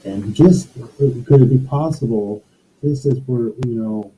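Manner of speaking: muffled bad connection. Real, not acted. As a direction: voice muffled through a bad mic. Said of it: "You're really muffled now".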